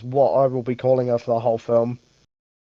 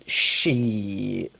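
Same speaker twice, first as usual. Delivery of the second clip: one long, drawn-out, falling low curse; Isaiah Whitlock Junior catchphrase; 5 semitones lower, 5 dB quieter than usual. Retold or imitated. Host quoting an actor's famous line, drawn-out catchphrase impression. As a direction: stretch the vowel right out, sliding down. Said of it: "Have you heard".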